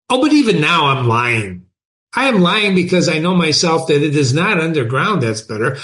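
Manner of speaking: emphatic confession read aloud; dramatic reading. A narrator's reading. Underground man admits he is lying, dramatic reading. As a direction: let the pitch swing on the key phrases. Reads novel aloud to class.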